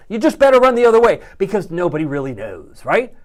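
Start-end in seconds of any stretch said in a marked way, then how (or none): 0.1-1.2 emphatic warning. Real, not acted. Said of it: "emphatic warning".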